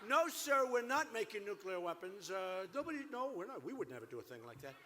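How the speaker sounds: mock innocent denial. Mocking Iranian denial.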